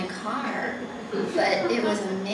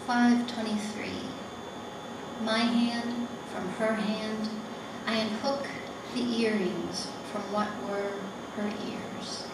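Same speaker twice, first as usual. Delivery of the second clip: measured poem recital with long pauses; poetry reading; slower than usual. Acted. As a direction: read each short line slowly, leaving space after it. Reads her poem aloud.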